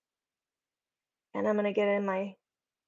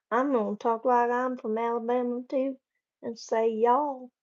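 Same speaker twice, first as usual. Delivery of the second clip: mock Southern accent; 3 semitones higher than usual. Shown as a demonstration. Streamer teasing an Alabama viewer, mock Southern accent. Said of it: "My accent's probably terrible".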